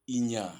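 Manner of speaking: "Inya" with a long final A; A final allongé. Shown as a demonstration. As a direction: hold the last vowel of "Inya". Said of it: "on va prononcer plus long". (« Inya » avec le A final prononcé long)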